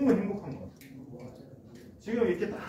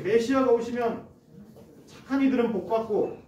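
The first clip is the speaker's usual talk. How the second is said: higher, louder proclamation; proclaiming; 5 semitones higher, 3 dB louder than usual. Retold or imitated. John the Baptist crying out his warning, higher and louder. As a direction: cry it out like a prophet. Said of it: "라고 외쳤던 세례 요한이".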